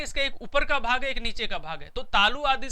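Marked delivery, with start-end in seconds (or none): 0.0-1.1 ऊपर said a little higher and rising; raised for the upper part. Shown as a demonstration. A teacher shows the upper part with a raised voice. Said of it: "तो ये दो part है". 1.1-1.9 lowered for the lower part. Shown as a demonstration. A teacher shows the lower part with a dropped voice. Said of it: "तो ये दो part है".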